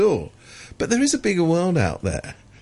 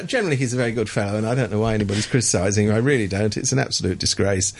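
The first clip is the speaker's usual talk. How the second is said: deadpan sarcasm; 5 semitones lower, faster than usual. Real, not acted. Ironic praise of Leung.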